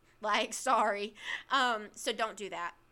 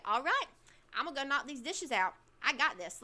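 pumped-up pep talk to yourself; hyped up; 4 semitones higher than usual. Shown as a demonstration. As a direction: psych yourself up to tackle the dishes. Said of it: "You don't have to say it like that".

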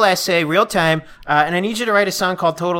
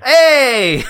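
laughing; 8 semitones higher than usual. Real, not acted.

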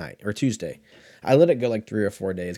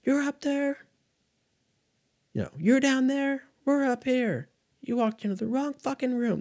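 high, put-on action-movie tough guy voice; mock the Rock's taunting movie line; the Rock impression. Vlogger quoting the Rock's shower scene, high mock tough voice. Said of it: "like, the fucking Rock in that shower scene".

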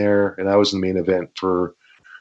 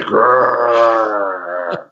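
growl; 2 semitones higher than usual. Retold or imitated. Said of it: "So I'm just like".

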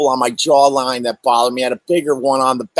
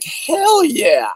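eager yes; 9 semitones higher than usual. Retold or imitated. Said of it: "I'm like".

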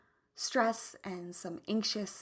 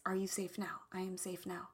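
whisper; 2 semitones lower, 9 dB quieter than usual. Real, not acted. Soothing self-check mantra.

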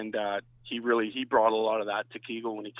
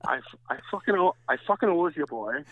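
put-on Hilly accent; 3 semitones higher than usual. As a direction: put on the ballplayer's regional accent, pitched up. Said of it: "I'm gonna try to do the Hilly accent".

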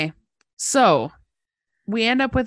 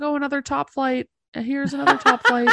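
raised, sing-song voice; high mock-cheerful; 6 semitones higher, 3 dB louder than usual. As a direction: chirp it brightly and higher. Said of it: "She's like".

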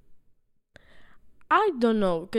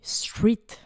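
whispering; 3 semitones lower, slower than usual. Real, not acted. Unsure answer, whispered.

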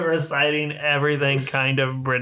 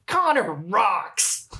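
slow, forced cheer with no joy behind it; fake excitement; 6 semitones higher, much slower than usual. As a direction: say it like you hate saying it. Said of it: "in the fakest fucking excitement ever".

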